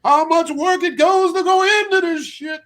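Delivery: slow, high, loud preacher cadence; drawn-out sermon thunder; Martin Luther King voice. Retold or imitated. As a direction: preach it like a civil rights orator. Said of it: "in my Martin Luther King voice".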